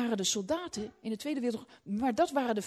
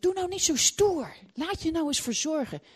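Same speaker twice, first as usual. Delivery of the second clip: husband pleading; 5 semitones higher, 5 dB louder than usual. Retold or imitated. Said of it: "hij zegt".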